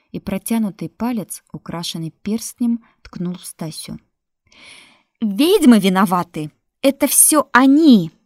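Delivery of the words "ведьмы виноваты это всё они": loud, high, pointing shout; shrill accusing shout. Acted. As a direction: scream the blame at them. Widow accusing the witches.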